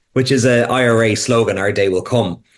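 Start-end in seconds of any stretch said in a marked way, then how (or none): none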